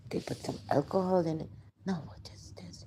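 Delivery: whispered in disbelief; whispered aside. Real, not acted. To the listener about the spiked coke, a shocked whisper. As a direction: drop to a shocked whisper, voice barely there.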